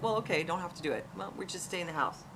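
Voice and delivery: mild, casual no-pressure tone; lightly modelled easygoing backing off; indirect. Retold or imitated. Parent indirectly enforcing compliance with a child, casually indirect. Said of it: "sort of indirectly, like".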